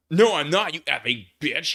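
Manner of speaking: angry shout. Acted. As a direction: yell it in fury. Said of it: "he shouted angrily".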